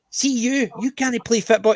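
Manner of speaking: high, rough mock threat; mock aggressive Scots. Scots mates trading insults in mock aggression. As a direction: snarl it like a friendly threat. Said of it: "Or two of them going".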